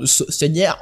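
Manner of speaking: "sonore" slipping towards a Spanish "señor"; accidental Spanish accent. Real, not acted. Host trips on the sound-design poll question, accidental Spanish accent. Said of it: "mon faux accent espagnol".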